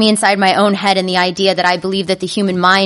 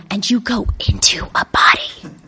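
hushed whisper. Acted. Dramatic ride description, hushed.

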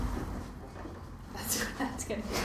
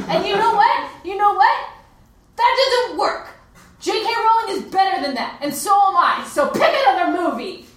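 indignant rant; 6 semitones higher than usual. Acted. Indignant partner rejects Hermione fantasy.

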